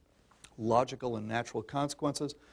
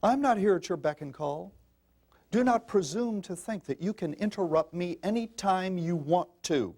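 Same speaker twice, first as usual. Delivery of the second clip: put-on firm, no-nonsense warning to a child; stern mother; 5 semitones higher than usual. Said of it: "You hear these women telling their children".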